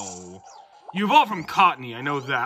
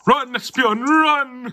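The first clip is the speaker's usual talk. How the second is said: high, loud, desperate cry; urgent shout; 9 semitones higher, 6 dB louder, much slower than usual. Acted. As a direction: yell it out, urging someone to flee. Urgent call to fleeing Pokemon.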